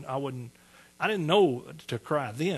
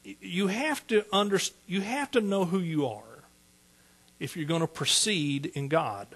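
ordinary talk, nothing marked

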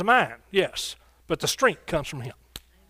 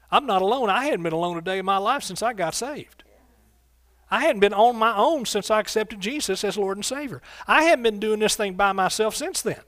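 raised, punchy preacher's delivery; emphatic preaching; 3 semitones higher than usual. Acted. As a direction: preach it with conviction to the congregation. Preacher's emphatic testimony and exhortation.

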